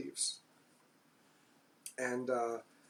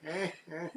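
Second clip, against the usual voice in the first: imitated Renfield laugh; 2 semitones higher, 7 dB quieter than usual. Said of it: "does his laugh".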